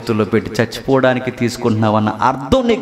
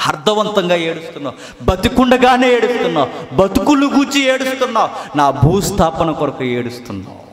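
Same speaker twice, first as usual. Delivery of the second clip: the words of Jesus climbing higher; Jesus praising the weeping woman, climbing higher; rising voice of Jesus; 4 semitones higher than usual. Acted. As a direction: build each line higher as Jesus. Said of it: "యేసుప్రభు అన్నాడు".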